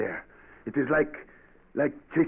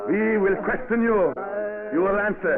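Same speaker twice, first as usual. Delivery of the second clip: commanding; 9 semitones higher than usual. Acted. Governor orders spies to answer.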